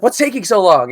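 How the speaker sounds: mock a manager demanding answers; imitated impatient manager. Manager asking employee about the holdup, mock impatience. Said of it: "she's like".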